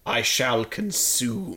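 slow menacing villain. Pretend. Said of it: "Ooh, yes".

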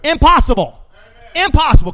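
preacher to congregation insisting, loud punched repeat; emphatic shout. Real, not acted. Preacher hammering a point.

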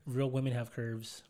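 slow careful speech through braces; enunciating around sore braces. Real, not acted. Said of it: "I can't really talk 'cause I got my braces tightened".

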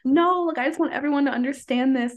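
pleading with real urgency; emphatic plea. Retold or imitated. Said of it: "And I'm like".

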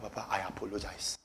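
low, very soft re-enacted apology; meek apology. Spiritual son apologizing to his pastor, soft and low. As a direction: drop right down, humbly.

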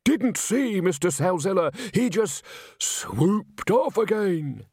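high, drawn-out, breathy account; excitable high-voiced witness; melodramatic victim. A narrator's reading. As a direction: play up the mystery for the boss. Victim dramatises to the manager.

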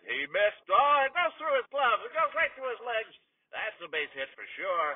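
radio sportscaster swept up in the play; excited play-by-play. Acted. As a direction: let it build as the ball gets through. Calls a base hit.

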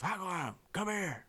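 high, strained call from a huge coach; imitated booming coach. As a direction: holler a summons across the field. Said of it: "has a booming voice you".

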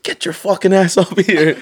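high, slow mock bellow; drawn-out mock drill command; retold trooper order. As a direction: imitate a trooper ordering someone up.

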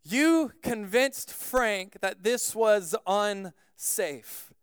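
slow, measured joking reproach, speeding up; mock upset. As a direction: scold deliberately without real anger. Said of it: "he wasn't actually mad".

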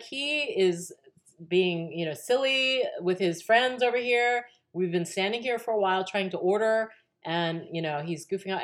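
high, lightly voiced complaining mom; a hint of an indignant mother complaining; mild complaint. Mother complaining to the manager, lightly indignant. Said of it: "much more dramatic than the way I'm expressing".

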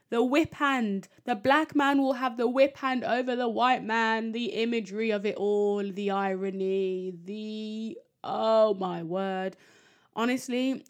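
loud, appalled exclamation; shocked disbelief. Real, not acted. Shocked outburst at the quote.

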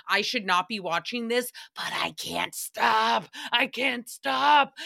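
breathy whispered confession, slowing down; hushed, drawn-out I can't stop; guilty whisper. Retold or imitated. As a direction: whisper it like you're ashamed to keep watching. Guilty binge-watching confession.

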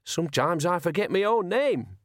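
frightened little man's high voice; high-pitched wheeze. A narrator's reading. Terrified Ernie claims he forgets his own name, high-pitched wheeze. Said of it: "his voice was a high-pitched wheeze".

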